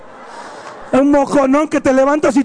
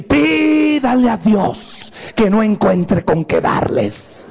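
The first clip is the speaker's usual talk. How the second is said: slow, menacing mom warning; mother's threat; 3 semitones lower, much slower than usual. Retold or imitated. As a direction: spell out the threat slowly like an angry mother. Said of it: "decía así".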